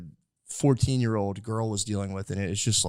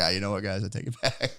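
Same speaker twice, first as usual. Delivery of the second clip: laughing mock recant; 5 dB quieter than usual.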